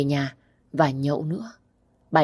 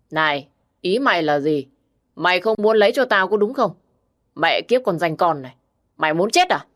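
lightly voiced drunk slurring; drunken slur. Drunk brother Nam picking a fight with his sister, mild slurred voice. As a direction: slur the words like a tipsy brother. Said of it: "Nam lúc này cất cái giọng lè nhè".

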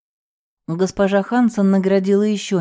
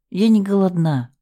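usual speaking voice

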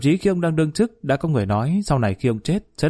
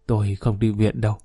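lightly voiced feeble old man, slowing at the end; a hint of a dying man's faint words; feeble mumble; 3 semitones lower than usual. Sick old father refusing the hospital, lightly feeble. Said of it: "ông lại thều thào nói".

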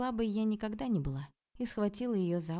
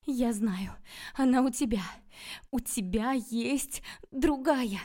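loud, higher, jealous accusation; woman's scream; 6 semitones higher, 5 dB louder, slower than usual. A narrator's reading. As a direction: cry it out in drawn-out, accusing bursts. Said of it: "услышала женский крик".

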